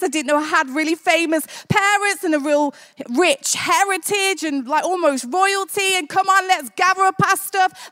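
lightly acted boyish excitement; a touch of wide-eyed thrill; excited. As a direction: tumble from amazement into eagerness. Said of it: "then it turns into excitement".

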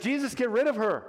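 acted impatient rejection; dismissive disciples. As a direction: dismiss her with annoyance. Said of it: "they don't care about that".

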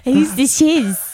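slow, drawn-out mock Cockney; imitated TV Cockney accent. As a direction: stretch it out in bad Cockney. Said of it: "he's doing a Cockney accent".

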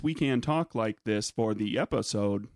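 slow robot voice with stiff cadence; words not quite connecting, like stitched-together recordings. Shown as a demonstration. Host demonstrating next week's robot voices, stilted robot delivery. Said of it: "entire episode in their robot voices".

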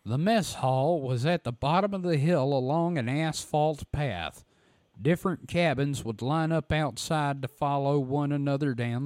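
lightly voiced Southern reader; a hint of a drawling storyteller; Phantoms and Monsters voice. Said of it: "my Phantoms and Monsters voice".

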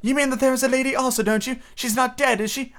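put-on high-pitched little boy full of questions; high, hurried child's voice; excited child. A narrator's reading. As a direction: pester mother with urgent questions. Child twin anxiously questions mother.

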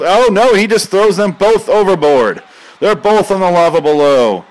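high, loud excited call; excited commentary. Real, not acted. Commentator calling the wrestling throw, excited. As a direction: sell the big moment like a play-by-play man.

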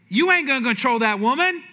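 blunt pastor. Retold or imitated. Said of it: "He goes".

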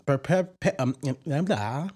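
talking round a cough drop; words blurred by a lozenge; cough drop in mouth. Real, not acted. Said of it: "a cough drop in my mouth now".

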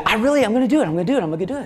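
lightly voiced boy insisting; determined kid voice. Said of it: "And he said".

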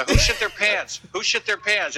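gossiping coworker. Retold or imitated. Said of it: "they're gonna talk all day about".

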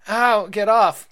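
loud, high, slow hurt cry; pained yell. Acted. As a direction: yell as you get pinned. Boy hurt in fight.

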